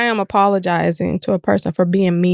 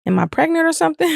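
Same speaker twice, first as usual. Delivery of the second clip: her voice of me. Retold or imitated. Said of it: "I was like".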